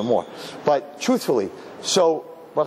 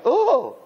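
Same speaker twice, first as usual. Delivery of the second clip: imitated high "oh"; brief mock exclamation, pitched way up; acted reaction of the pitied person; 12 semitones higher, 3 dB louder than usual. Imitates person receiving pitying charity.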